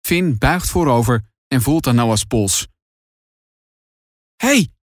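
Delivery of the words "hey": high, tentative and trembling. A narrator's reading. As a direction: barely dare to speak, afraid of the answer. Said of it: "met een trillende stem". (Finn tegen zijn bewusteloze broer, met trillende stem)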